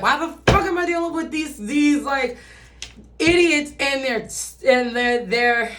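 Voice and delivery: high, loud mock rant; exasperated superiority. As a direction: rant loudly like you're above these people. Voicing a superior person's frustrated rant.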